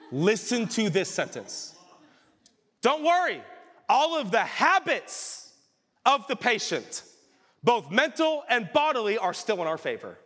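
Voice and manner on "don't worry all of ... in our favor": mock reassuring devil. Preacher voices Screwtape soothing the tempter, hammed-up devilish reassurance. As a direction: savour each word like a sly demon.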